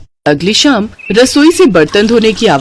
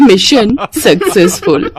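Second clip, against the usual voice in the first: chuckling, slow and smug; laughing triumph; slower than usual. Acted. Mother and son laughing over their trick, smug chuckle. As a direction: gloat through a laugh.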